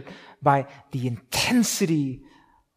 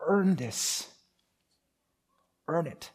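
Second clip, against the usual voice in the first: hushed, soft last words of a dying man; dying soldier's whisper; 8 dB quieter, slower than usual. Retold or imitated. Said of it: "he pulled him in close and he said".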